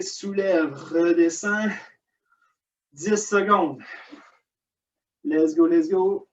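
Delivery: effortful coaching mid-workout; strained voice while exercising; straining while exercising. Real, not acted. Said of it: "je suis proche de la crampe".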